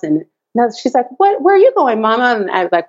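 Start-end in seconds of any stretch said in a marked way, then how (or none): 1.2-2.3 put-on high, light child voice; a small daughter asking; little girl voice.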